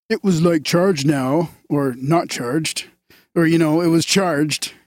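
lightly voiced Cheech-and-Chong stoner; a hint of laid-back stoner in the voice. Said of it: "That was more of the stoner voice".

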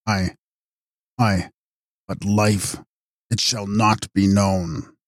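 faint, halting dying voice; dying words. Acted. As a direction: let the breath run out as you speak. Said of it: "the dying man".

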